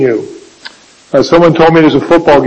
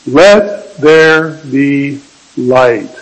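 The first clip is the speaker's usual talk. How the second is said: solemn voice of God; 2 semitones lower, much slower than usual. Acted. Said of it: "God just spoke and said".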